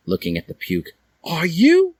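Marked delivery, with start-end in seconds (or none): 1.2-2.0 Draco's voice. Acted. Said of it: "Draco said".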